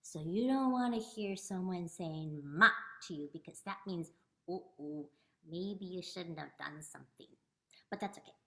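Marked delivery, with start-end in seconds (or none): 2.4-2.7 "ma" short and falling; fourth tone. Shown as a demonstration. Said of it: "It's a short down sound". 4.5-7.3 mild scolding. Acted. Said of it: "to scold".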